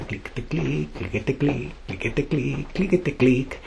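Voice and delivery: soft, rhythmic click-click imitation; imitated clicking. A narrator's reading. Narrator imitating someone entering the workshop, soft rhythmic clicks.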